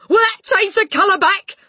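high, loud worried plea; anxious question. A narrator's reading. Father to Matilda, anxious loud question. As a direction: ask it in a fret. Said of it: "asked anxiously".

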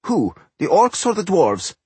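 high-pitched, prying gnome voice; high gnome character question; inquisitive gnome. A narrator's reading. Gnome questioning his master.

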